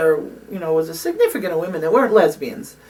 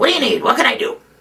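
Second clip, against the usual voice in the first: forceful, strained, pitched-up powerhouse voice pushed hard; 6 semitones higher than usual. Retelling an activist arriving at camp at three in the morning: deep Bella Abzug voice. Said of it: "she had that really deep".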